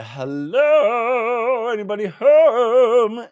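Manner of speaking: high, loud mock hello; mock calling out. Hero calls out at the homestead, hammed-up high call. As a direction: call out high and slow to the house. Acting Severian calling at the door.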